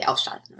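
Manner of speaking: "ausschalten" said with stress on AUS; stress on the prefix. Shown as a demonstration. Teacher giving the answer, AUS stressed in "ausschalten". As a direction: put the weight on AUS in "ausschalten". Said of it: "stress on the prefix or not".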